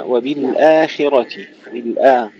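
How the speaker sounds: "وبالآخرة" slowly, the hamza and long aa thin; light hamza. Shown as a demonstration. Teacher modelling for a reciter, "وبالآخرة" with light hamza. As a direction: keep the آ of "وبالآخرة" light, not heavy. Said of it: "خلي الهمزة مرققة".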